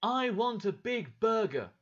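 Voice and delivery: high, loud, slow demanding yell; a child wailing for a burger; child shouting. Acted. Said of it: "started shouting".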